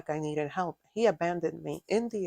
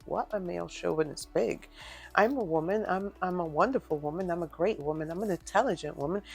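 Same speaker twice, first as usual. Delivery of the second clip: indignant inner retort; 4 dB louder than usual. Retold or imitated. Daughter's silent answer to her belittling father, indignant and loud. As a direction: stand up for yourself, rising in pitch and volume.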